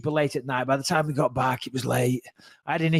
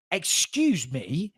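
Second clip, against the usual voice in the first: very drawn-out incredulous query; slow, retold indignant reply; taken aback; much slower than usual. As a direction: stretch it out in mild mock disbelief. Acted taken-aback reply to accusation.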